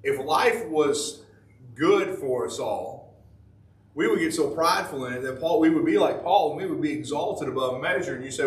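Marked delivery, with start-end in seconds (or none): 3.9-8.1 steady preaching voice; measured sermon cadence. Acted. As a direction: preach it to the pews. Preacher exhorting congregation.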